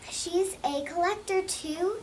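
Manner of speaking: put-on a child amazed at the glitter note; surprised question. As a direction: Pearl finding the note, astonished. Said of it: "said Pearl".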